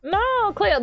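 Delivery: quick imitation of an Aussie TV meme; Australian accent. Streamer repeating the mermaid show line, mock Australian accent. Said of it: "The only Australian one is".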